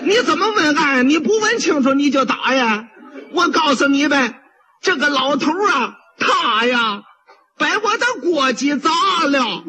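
wailing complaint, pitched high with sobs; crying protest. Acted. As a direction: pot seller jumping up sobbing at the magistrate. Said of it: "卖砂锅的蹦起来了".

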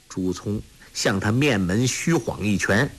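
ordinary delivery, nothing marked

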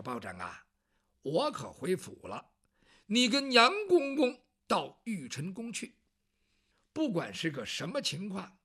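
put-on fatherly advice from an old minister; old chancellor.

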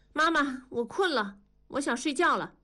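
put-on high, whiny child's voice; impatient child. A narrator's reading. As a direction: complain like a fed-up little girl. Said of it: "不耐烦了". (不耐烦的小女孩高音)

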